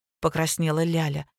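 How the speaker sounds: ordinary delivery, nothing marked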